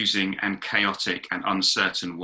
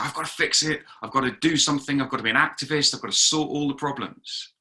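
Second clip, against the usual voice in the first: slightly raised, urgent list of duties; mildly frantic resolve; 3 semitones higher, faster than usual. Acted. Person trying to fix the world themselves, mock urgency. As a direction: pile up the tasks as a mock fixer. Acted frantic would-be fixer.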